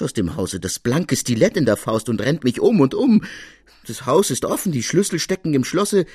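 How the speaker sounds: lightly voiced shaken manservant; agitated servant Baptist. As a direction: tumble through the story breathless with worry. Servant Baptist tells his tale.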